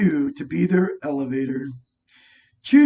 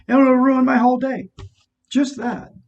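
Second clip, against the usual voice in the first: emphatic; 7 semitones higher, 4 dB louder than usual. Real, not acted. Exasperated emphasis.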